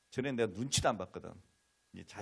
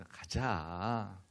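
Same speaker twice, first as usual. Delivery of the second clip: gentle coaxing; much slower than usual. Retold or imitated. Father asking daughter to come along, coaxing. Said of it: "달래는 거죠".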